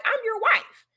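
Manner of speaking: mock-offended, pitch jumps up then settles; lightly acted indignation; offended wife. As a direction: act out a wife taking offense. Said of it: "a woman feeling offended".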